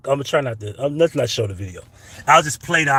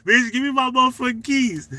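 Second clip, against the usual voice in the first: retold demand; 10 semitones higher than usual.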